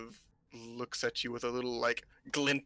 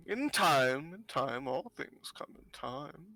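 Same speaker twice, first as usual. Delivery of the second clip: put-on cryptic old fortune-teller; slower than usual.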